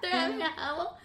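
high mock Manchester voice; broad put-on Manchester accent. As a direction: imitate a Mancunian woman's phrase. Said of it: "Manchester accent I've ever heard".

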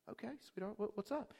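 put-on soft, tender voice to a child; gentle reply. Pastor answering six-year-old who asks to speak, gentle. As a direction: gently invite a little one to talk.

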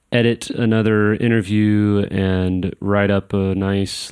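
drugged-up groggy voice; sluggish, groggy from pain meds. Real, not acted. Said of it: "if I sound a little groggy, it's because I'm on med".

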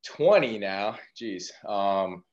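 winded after running upstairs; breathless, catching air between words; out of breath. Real, not acted. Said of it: "Sorry, I'm out of breath".

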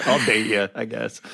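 laughing, mock-reluctant "I guess" that fades away; reluctant wife. Husband mimics his wife finally agreeing, laughing reluctantly. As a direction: give in with a shrug and a laugh.

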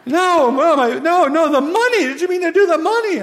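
high, loud, frantic correction; agitated high-pitched questioning; flustered disbelief. Acted. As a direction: stumble over words, astonished. Server flustered about the tip.

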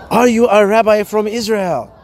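imitated woman's question, lightly Asian-accented; lightly mimicking an Asian accent. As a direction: ask it with a mild Asian accent. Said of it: "she said it to me in an Asian accent".

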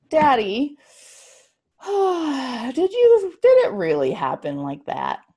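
put-on high sleepy little girl asking; child voice. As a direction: ask like a tired small child. Child asks father.

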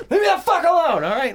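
very high, loud mock outburst; mad shout. Angry cop rebuffs his calming friend, acted high shout. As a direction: yell it like a cop who has snapped. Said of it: "he's getting fucking mad".

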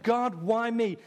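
high, slow moaning complaint; a believer whining to God that life is unfair; whiny complaint. Acted. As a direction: drag out the grievance, pleading. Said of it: "who's asked that question".

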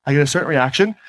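first version of the line, kept low; one tone of voice. Shown as a demonstration. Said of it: "when I speak in this tone of voice".

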